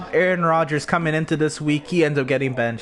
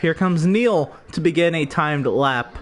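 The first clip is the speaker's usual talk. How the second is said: race commentary. Acted.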